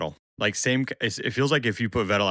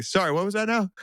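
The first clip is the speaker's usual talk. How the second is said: mock feigned deafness; 11 semitones higher than usual. Bottas dodging the Cadillac question.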